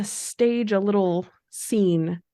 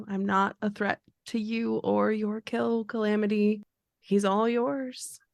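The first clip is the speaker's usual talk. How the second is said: soothing the beast; 3 dB quieter than usual. Acted. Calming a frenzied vampire.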